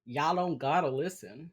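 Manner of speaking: hammed-up Texan; Texas accent. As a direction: join in with mock Texan twang. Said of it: "hate on my accent".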